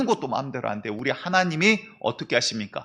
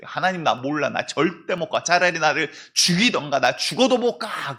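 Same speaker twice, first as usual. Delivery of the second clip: rising defiant refusal; 2 semitones higher, 4 dB louder than usual. Acted. Jonah refusing, escalating.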